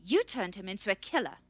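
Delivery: loud, accusing shout leaning on "You"; shouted, stress on YOU. A narrator's reading. Researcher accuses the scout, shouting with "You" stressed. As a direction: shout it, throwing blame with "You". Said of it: "she shouted".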